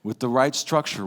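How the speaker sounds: drawn-out, measured list; slow each item down like a melody; slow, musical phrasing. Shown as a demonstration. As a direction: stretch out every phrase deliberately. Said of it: "You're making music".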